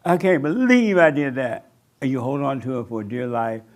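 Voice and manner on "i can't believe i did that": louder, anguished "I'm wrong"; mock anguished confession; out loud self-blame. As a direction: cry it out as if beating yourself up. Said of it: "You say out loud".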